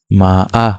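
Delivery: মা আ dipping then rising; মা আ with a dip; third tone ma. Shown as a demonstration. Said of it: "তাহলে horse".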